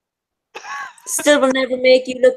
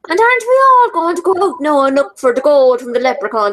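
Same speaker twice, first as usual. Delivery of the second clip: hammed-up stage Irish lilt, a bit higher; mock Irish accent; 4 semitones higher than usual. Mocking a film's fake Irish accent, hammed-up stage Irish. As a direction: play the cheesy old-film Irishman. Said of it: "Darby O'Gill and the Little People".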